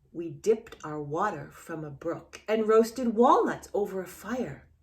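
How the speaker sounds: gentle storybook reading voice; reading to children. A narrator's reading. Teacher reading a picture book to a small child, gentle storybook voice.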